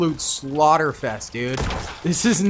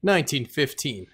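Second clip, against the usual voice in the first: scenario narration; 4 dB quieter than usual. Acted. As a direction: set the scene like a war documentary. Reads map description intro.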